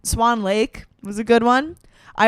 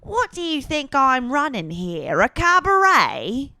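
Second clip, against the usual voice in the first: Madame Carp; 3 semitones higher than usual. Acted. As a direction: stretch the last word in mock outrage. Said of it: "Madame Carp".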